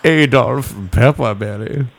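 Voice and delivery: Bane-like voice. Acted. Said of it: "He sounds like Bane".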